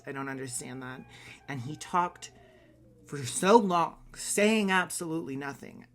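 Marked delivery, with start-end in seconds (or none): 1.5-5.9 louder, higher, exasperated complaint. Real, not acted. Vlogger griping about an actor's endless speech, exasperated. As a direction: lean hard on the grievance, pitched up and loud.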